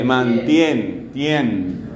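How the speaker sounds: "mantien" slowly, then TIEN alone; slow teacher's demo landing on "tien"; isolated stressed syllable. Shown as a demonstration. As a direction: break off at "tien" and hold it, falling. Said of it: "Esta es la sílaba tónica".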